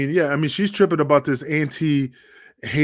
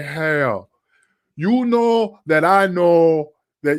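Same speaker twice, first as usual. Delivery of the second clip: slow put-on Spanish accent, laid on slowly; 2 semitones higher than usual. Retelling being told to referee in the ring in a Ricky Ricardo accent. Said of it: "We need you to talk like a Ricky Ricardo accent".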